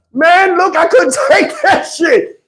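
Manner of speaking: laughing through the line, slowed down. Real, not acted. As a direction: break up laughing mid-sentence. Laughing while retelling.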